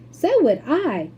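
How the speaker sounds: put-on slow, loud quavering old lady; stubborn agreement; old woman's cry. A narrator's reading. Grandma Georgina joining the refusal loudly. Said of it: "cried Grandma Georgina".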